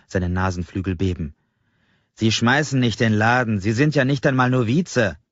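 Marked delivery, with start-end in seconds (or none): 2.1-5.2 contemptuous scolding. Acted. Angry customer belittles clerk.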